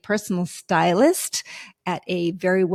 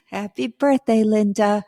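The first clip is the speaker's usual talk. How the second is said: birthday cheer; 2 semitones higher than usual. Real, not acted. Birthday greeting.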